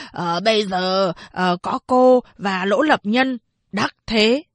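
a lightly voiced old blind man, slow and pleading. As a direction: blind old man begging the villagers to see the truth. Blind old man taunts Phán Đệ.

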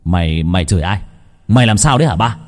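loud scolding shout; father yells at his possessed sister. Acted. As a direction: bark at her to snap out of it. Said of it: "quát to".

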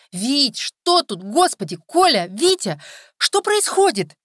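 high, loud, slow alarmed cry of a woman; frightened cry. Acted. Tonya runs up to the fighting men, crying out in alarm. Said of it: "его остановил женский крик".

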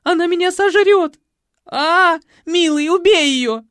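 hysterical panic. A narrator's reading. Hysterical woman sees rat.

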